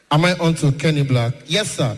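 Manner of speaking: low voice of a wealthy man; deep rich caller. Retold or imitated. Rich caller on the phone, low and bossy. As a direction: sound important and unhurried.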